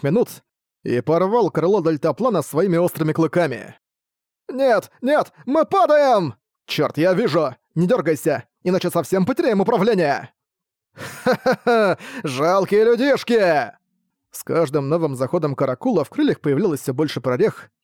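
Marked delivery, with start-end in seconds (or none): 4.5-10.3 panicked screaming. Acted. Дельтаплан падает, паника. 10.9-13.7 slow, evil mocking laugh; dark lord. Вампир атакует с хохотом.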